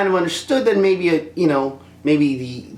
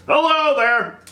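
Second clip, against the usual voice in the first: higher, bright mock greeting; Obi-Wan quote; 11 semitones higher, slower than usual. Vlogger quotes Obi-Wan, higher playful greeting.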